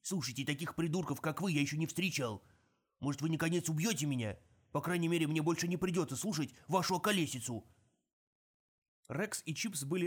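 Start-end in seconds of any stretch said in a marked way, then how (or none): 0.0-7.7 exasperated dwarf ranting; fed up with fools; gruff gravelly dwarf voice. Acted. Dwarf rant.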